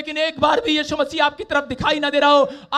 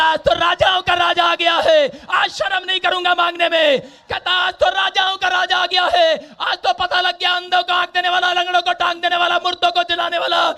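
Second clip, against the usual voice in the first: shouting; 3 dB louder than usual. Retold or imitated. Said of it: "वो तो और जोर जोर से चिल्लाने लगा".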